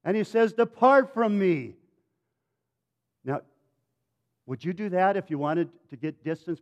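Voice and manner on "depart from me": begging. Acted. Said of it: "Peter begs Jesus".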